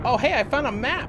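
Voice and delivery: delighted loud discovery; excited. Real, not acted. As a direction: exclaim with glee. Finding item in horror game.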